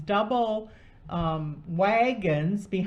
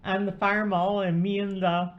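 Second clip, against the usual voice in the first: ice in mouth. Real, not acted. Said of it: "I'm sucking on an ice cube".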